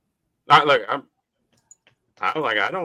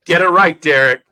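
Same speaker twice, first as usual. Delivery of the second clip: mock scolding; 6 dB louder than usual. Mock scolding a friend on mic.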